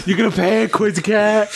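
odd put-on voice. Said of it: "why am I talking like this".

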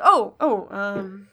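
flustered, halting excuse with pauses; awkward recovery. Acted. Jiro excuses himself after the accidental kiss, awkward. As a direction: stall with ums while making an exit. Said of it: "he sort of recovers and is like".

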